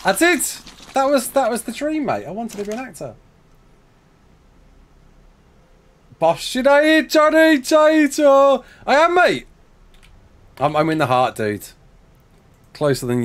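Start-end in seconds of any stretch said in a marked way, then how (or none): 0.0-9.5 high, loud theatrical declaring; hammed-up actor voice. Streamer hams it up about wanting to be an actor. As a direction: proclaim your acting dream like a stage ham. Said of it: "He acts every time he records".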